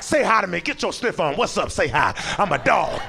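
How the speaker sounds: lightly voiced eager dog; friendly dog voice. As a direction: greet a leg like a nosy dog. Dog greeting a stranger.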